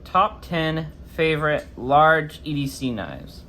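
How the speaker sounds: talking after wisdom teeth removal; swollen jaw speech. Real, not acted. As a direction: speak around a swollen jaw. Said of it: "Sorry if my voice kinda sounds weird".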